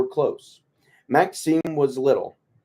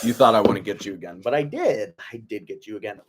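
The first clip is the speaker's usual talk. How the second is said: fast, gleeful gotcha in a changed voice; Blender impersonation; faster than usual. Retold or imitated. Prankster taunting his victim, fast gleeful gotcha. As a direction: rattle it off like a gloating prankster. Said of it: "That was my impersonation of Blender".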